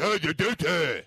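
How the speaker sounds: shouted mimicry in nonsense syllables; mock a bad impression; dopey parody of a coworker's impression; mocking imitation. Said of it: "That's what I hear".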